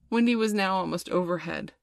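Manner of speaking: usual speaking voice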